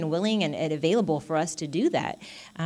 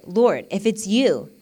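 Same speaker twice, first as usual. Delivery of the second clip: measured, louder reading of Peter's words; scripture reading; 3 semitones higher, 6 dB louder, slower than usual. A narrator's reading. Reading Peter's reply to Jesus, measured scripture voice. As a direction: read it out slowly and firmly. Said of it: "Peter replied".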